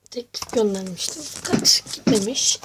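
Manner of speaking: slightly hoarse, half-whispered; rough, strained voice. Real, not acted. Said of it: "Sesim kısık biraz".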